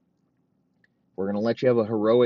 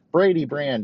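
laughing; 7 semitones higher, 3 dB louder than usual. Pretend. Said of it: "Just make it real fucking Brady bland".

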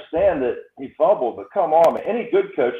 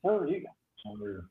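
call dropping out; 11 dB quieter, much slower than usual. Real, not acted. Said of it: "You're choppy, Tony".

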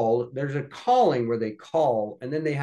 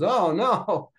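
higher-pitched acted dismay; dismayed realization; 7 semitones higher, 4 dB louder than usual. Man learning he insulted someone's sister, dismayed. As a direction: blurt it as the blunder sinks in.

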